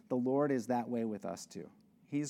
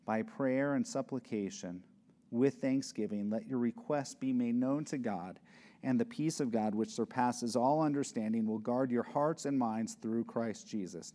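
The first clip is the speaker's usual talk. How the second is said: scripture reading; 3 semitones lower than usual. Shown as a demonstration. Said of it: "In verse six".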